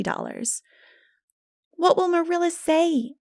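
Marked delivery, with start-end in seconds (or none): 1.7-3.1 put-on a higher, anxious girl's question; lightly voiced girlfriend; worried friend. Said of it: "asked Diana".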